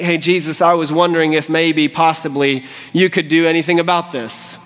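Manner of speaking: mildly hesitant request; tentative questioning. Acted. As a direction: ask as if unsure he can. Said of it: "not any questioning in the leper".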